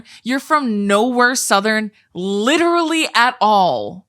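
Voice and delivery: mock-outraged rant about his fake southern accent; retold rant. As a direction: replay the outburst at him. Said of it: "I said".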